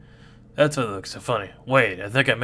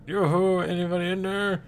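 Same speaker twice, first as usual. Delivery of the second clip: higher, sustained yoo-hoo call; 5 semitones higher than usual. Acted. Mole cricket calling into a big hole, calling out.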